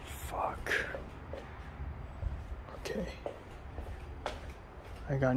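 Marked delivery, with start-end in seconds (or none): 0.0-3.1 whispering. Real, not acted. Scared of cockroach, whispering.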